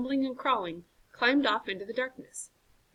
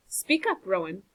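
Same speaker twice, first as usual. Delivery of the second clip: urging. Acted. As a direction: nudge him to speak. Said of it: "urged Strong John".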